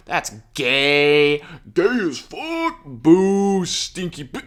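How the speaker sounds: high, loud put-on jeer; mock heckling. Host jeering at Lewis for spreading lies, mock heckling. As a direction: boo like a childish heckler in the crowd.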